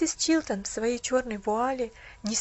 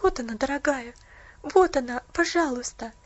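tender; 3 dB louder than usual. Acted. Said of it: "нежно проговорила Полианна".

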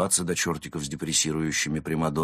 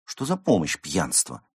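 objecting. Acted. Friend disputing the cat's excuse, objecting. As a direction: challenge it sceptically. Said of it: "возразила Берта".

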